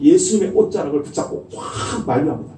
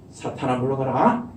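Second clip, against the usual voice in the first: calm dignified; 5 semitones lower, 3 dB quieter than usual. Pretend. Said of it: "딱 그냥 점잖게".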